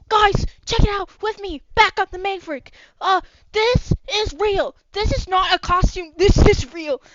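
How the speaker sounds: high, loud excited yelling; excited shouting. Acted. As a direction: hype it up like filming a viral clip. GM voices Landon filming monsters.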